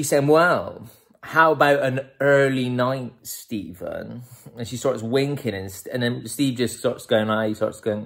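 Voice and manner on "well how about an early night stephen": put-on suggestive girlfriend. Girlfriend's winking suggestion, acted.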